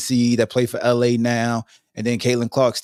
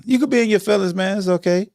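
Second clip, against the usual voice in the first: much higher, sing-song mock comfort; mock soothing; 7 semitones higher, faster than usual. Host teasing touchy fans in a high cooing voice. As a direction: coo at them like a baby.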